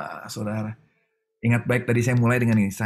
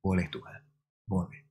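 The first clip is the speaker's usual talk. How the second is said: much softer, yielding through tears; tearful yes; 4 semitones lower, 8 dB quieter than usual. Retold or imitated. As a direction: give in quietly, weeping. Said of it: "Saya menangis di situ dan saya bilang". (lirih sambil menangis)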